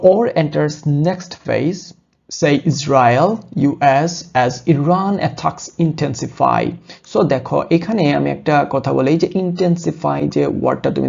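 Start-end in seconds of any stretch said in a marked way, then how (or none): 0.1-1.8 slow headline read. Shown as a demonstration. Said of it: "teacher reading headline aloud". 2.4-6.6 slow headline read. Shown as a demonstration. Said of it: "teacher reading headline aloud".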